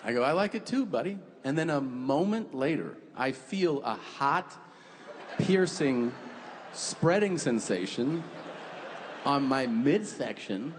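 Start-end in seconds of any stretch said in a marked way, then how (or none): 0.2-1.2 put-on higher, softened talk to a child; mock-tender, pitched up; tender dad. Dad answering his son tenderly. 3.1-10.7 slow, word by word with long pauses; deliberate, dawning-realisation build; suspenseful description. Retold or imitated.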